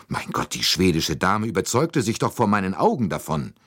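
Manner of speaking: high, protesting lady; exasperated Mrs. Hubbard. Acted. Lady insists the bolt was checked, exasperated and high.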